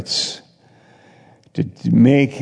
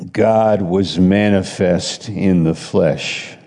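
lower, weighty scripture read; slow solemn scripture reading; 3 semitones lower, slower than usual. Acted. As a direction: read it slowly and gravely. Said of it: "It says in chapter three".

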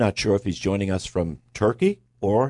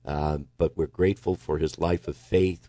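prayer. Real, not acted. Host prays for Brother Phil, prayerful. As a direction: give thanks and ask earnestly, unhurried.

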